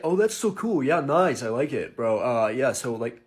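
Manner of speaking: lightly voiced laid-back American bro; casual bar chat-up, mimicking an American; American guy flirting.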